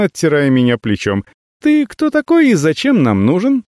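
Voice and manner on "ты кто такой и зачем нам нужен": rude. Acted. Nacia confronts stranger rudely.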